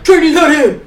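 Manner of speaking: put-on drawled Louisiana accent on Trainee Hadney; a drill instructor in a thick Louisiana accent. Instructor calling her name, Louisiana accent. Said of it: "He had this thick ax-, like, accent".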